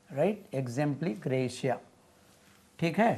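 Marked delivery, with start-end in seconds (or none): 0.5-1.8 exempligratia drawn out very slowly, syllable by syllable. Shown as a demonstration. Teacher spelling out the Latin slowly. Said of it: "Abbreviation of".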